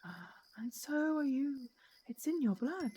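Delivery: slow whisper from nowhere; ghostly whisper. Acted. Unseen spirit whispers to the girl at the grave. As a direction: breathe it like a hidden spirit. Mysterious voice answers the heroine.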